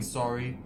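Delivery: "sorry" said the Canadian way, lightly; a light mimicked Canadian "sorry"; imitated Canadian pronunciation. Explaining the Canadian accent, a lightly imitated "sorry". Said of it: "you know, the, the Canadian".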